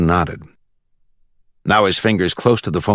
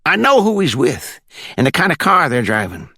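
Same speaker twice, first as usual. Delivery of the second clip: put-on country accent from the Glades; 9 semitones higher than usual. A narrator's reading. Caller on speakerphone checking for the judge, high country accent. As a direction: ask it in a high rural Florida accent. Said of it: "With that country accent".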